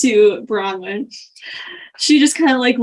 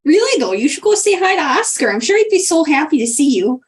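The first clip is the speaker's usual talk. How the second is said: lilting, higher start, coaxing; lightly gushing busybody; 4 semitones higher, faster than usual. Acted. Greta urges Clay to greet Oscar, coaxing. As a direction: lightly coax with a swooping lilt.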